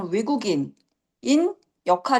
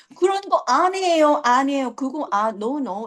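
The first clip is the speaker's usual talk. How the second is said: put-on awkward, non-native, foreign-accented Korean; 4 semitones higher than usual. Explaining a musical role, imitating an actress's awkward foreign-accented Korean. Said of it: "그 어색한 외국인의 한국어 발음의 이 느낌".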